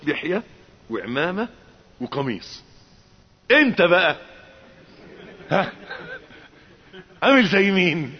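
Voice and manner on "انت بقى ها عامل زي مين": challenging question. Acted. Rhetorical challenge to the listener.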